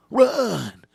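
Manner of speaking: high, loud yell; sudden cry to flee; hammed-up alarmed shout; urgent warning shout. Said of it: "warns you".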